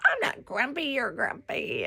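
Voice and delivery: high, playful imitation of squabbling; mock retort. Wife bickering back at husband, mock-indignant. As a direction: toss it back, mock-defensive.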